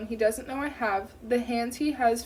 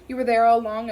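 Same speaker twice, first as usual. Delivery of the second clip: angry outburst; 8 dB louder, faster than usual. Acted. Jessica confronts her mother's killer.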